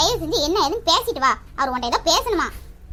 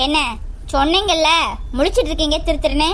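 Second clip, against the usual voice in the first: accusing; 4 dB louder than usual. Acted. Wife accusing husband of lying.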